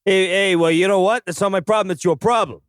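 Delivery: angry. Acted. General yells at lackey.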